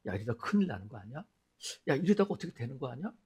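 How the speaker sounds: fast, hushed worried muttering to oneself; anxious inner voice. Retold or imitated. A believer gripped by sudden fear, fast anxious inner voice. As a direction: let the fear tumble out quickly under the breath. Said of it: "두려움이 확 찾아오는 거예요".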